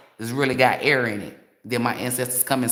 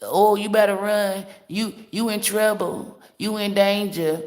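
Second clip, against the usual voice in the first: high mock-alarm, lightly acted; mock warning; 5 semitones higher than usual. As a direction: mimic a dire warning, stretching the last words. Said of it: "They be talking about".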